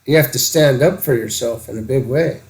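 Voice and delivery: normal talking voice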